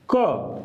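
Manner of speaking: क said slowly and clearly as a sound demo. Shown as a demonstration. Teacher to Hindi learners, demonstrating क clearly. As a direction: hold क as a clean model syllable. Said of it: "अ का sound होता है".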